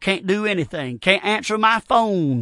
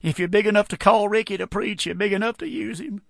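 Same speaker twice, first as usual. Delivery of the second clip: praying; 6 dB quieter than usual. Retold or imitated. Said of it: "he was a praying".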